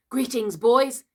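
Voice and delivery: loud, high hail; cried greeting. A narrator's reading. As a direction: greet the band like their returning leader. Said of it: "he cried".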